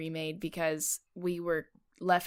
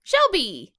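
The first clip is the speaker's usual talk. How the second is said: Arthur Shelby; 7 semitones higher, 7 dB louder than usual. Retold or imitated. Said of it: "That sounded a lot like Arthur Shelby".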